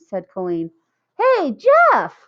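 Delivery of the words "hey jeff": high, loud call across the street; shouted call. A narrator's reading. Lori calling out to Jeff across the street, loud shout. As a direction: shout his name to get his attention. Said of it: "Lori shouted".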